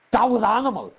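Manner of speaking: high, loud, impressed shout of praise; excited brother. Retold or imitated. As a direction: say it like you can't believe how wild it was. Brother raving about the fight.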